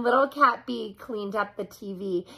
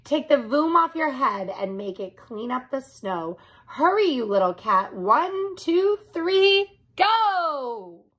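yelled; 4 semitones higher than usual. Acted. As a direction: build up to the go. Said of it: "Then he yelled".

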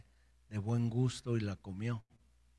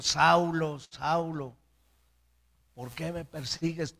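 raised preacher's call, loud on the first name; God calling Saul; 4 semitones higher, 5 dB louder, slower than usual. Acted. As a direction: cry out the name, then question him. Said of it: "A Saulo de Tarso le dijo".

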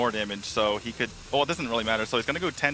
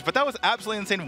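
excited; 7 semitones higher, much faster than usual. Real, not acted. Caster amazed by finish.

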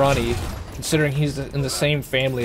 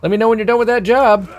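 mock calm quote; 8 semitones higher, 5 dB louder than usual. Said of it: "and he says very calmly".

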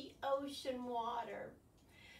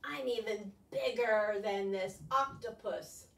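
proud squid; 4 semitones lower, 6 dB louder, slower than usual. Acted. Squid boasts in story.

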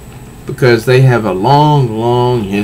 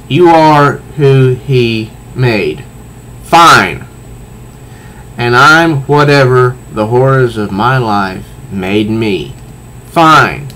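resigned but pressing; tearful comic reading; slower than usual. Acted. Selina in tears, reading.

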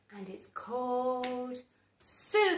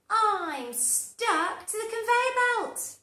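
panicked Carrot; 10 semitones higher, 8 dB louder than usual. Acted. Carrot continues.

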